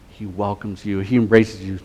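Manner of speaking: dropped to a near hush, reassuring; quiet sincere promise; soft and tender. Real, not acted. Tender close of appeal.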